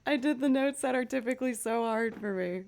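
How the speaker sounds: high-pitched retold burst of excitement; thrilled, settling a little toward the end; too excited. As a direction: reenact getting carried away after a win. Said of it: "I got too excited".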